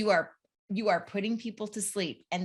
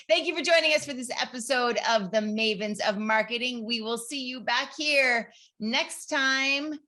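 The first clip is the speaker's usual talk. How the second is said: news anchor voice; 4 semitones higher than usual. Shown as a demonstration. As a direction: read it like the evening news host. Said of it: "But do it in your anchor voice".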